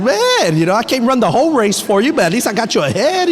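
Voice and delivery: fast, high, boastful; hammed-up proud husband showing off; playful teasing brag to wife, high and fast; mock bragging husband.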